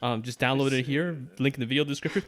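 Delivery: lightly imitated Hindi accent, tutorial host; a hint of Hindi-accented English. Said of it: "thick, like, Hindi accent be all like".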